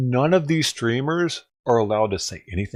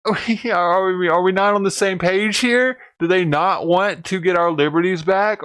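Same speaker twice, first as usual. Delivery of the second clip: higher, louder incredulous questions; baffled, pressing the point; questioning the convoy's goals in disbelief; exasperated; 6 semitones higher, 3 dB louder than usual. Real, not acted. Continued exasperated rant.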